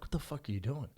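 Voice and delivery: calm, unraised retold question; level, controlled challenge; real calm. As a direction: ask it evenly, keeping things from escalating. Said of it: "I'm just being real calm".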